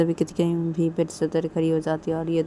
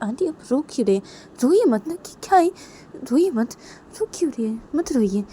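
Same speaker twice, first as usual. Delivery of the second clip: anxious consoling; 8 semitones higher, 5 dB louder than usual. Acted. Consoling crying aunt.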